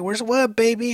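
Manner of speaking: put-on high-pitched coaxing to a child; imitated doting dad; retold parent's question. Father answering sleep-talking daughter, retold.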